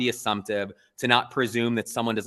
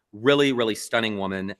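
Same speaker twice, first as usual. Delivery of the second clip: normal talking voice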